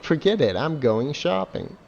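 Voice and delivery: mock bored shopper line; mocking game character. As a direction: ham up the vapid game voice. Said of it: "Do people actually talk like that?".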